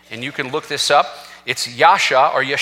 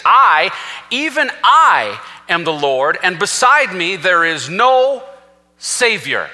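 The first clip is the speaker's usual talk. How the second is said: slow, weighty, raised declaration with "I" drawn out; emphatic; 5 semitones higher, 3 dB louder, slower than usual. Retold or imitated. Preacher quoting God's words from Isaiah, emphatic. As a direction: stretch each "I" high and strong. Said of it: "I say emphatically because he repeats it".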